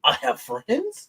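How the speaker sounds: high, slow wondering question; hammed-up amazed Sonic; mock wonder. Quoting Sonic waking up.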